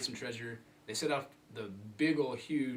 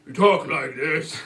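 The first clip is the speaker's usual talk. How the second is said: loud slow deformed voice; Sloth voice; 4 semitones higher, 13 dB louder, slower than usual. Retold or imitated. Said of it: "And he talks".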